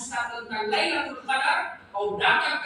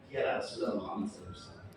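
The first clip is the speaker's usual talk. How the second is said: low, breathy, fast reverent greeting; deep whispered rush of reverence; hushed awe; 9 dB quieter, much faster than usual. Acted. Weeping Abu Bakar greets Prophet.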